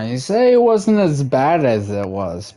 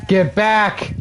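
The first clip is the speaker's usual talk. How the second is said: higher, urgent command get back; sharp shout; 8 semitones higher than usual. Real, not acted. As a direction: bark it at the dog.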